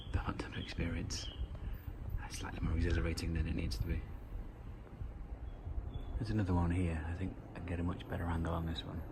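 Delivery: soft unvoiced whisper, close to the mic; hushed whisper. Real, not acted. Filming the spider over the hot tub, hushed whisper. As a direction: keep it hushed so nobody is disturbed.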